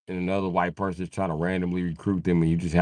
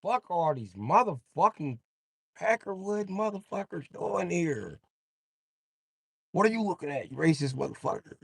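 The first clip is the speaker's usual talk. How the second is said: mock white guy; 8 semitones higher than usual.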